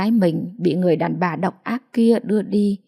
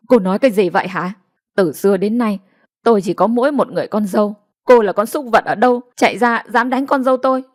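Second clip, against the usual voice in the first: put-on an old mother snapping back louder at the stranger; scolding back; 3 dB louder, faster than usual. Mother-in-law shielding Loan, scolding the stranger angrily. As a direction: tell off the woman who hit her daughter-in-law. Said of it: "bà chửi lại".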